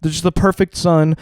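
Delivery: mock a parent gushing over the favorite; imitated gushing praise. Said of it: "praise him so much".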